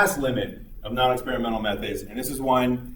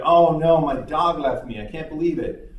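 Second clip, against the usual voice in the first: hammed-up, higher "oh no" of dismay; mock dismay; 4 semitones higher than usual. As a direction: play the jilted guy's mock despair. Gage lamenting his dog leaving.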